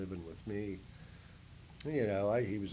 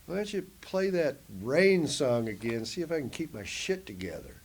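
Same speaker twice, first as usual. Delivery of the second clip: asking friend; 5 semitones higher, 4 dB louder than usual. Retold or imitated. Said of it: "And I say".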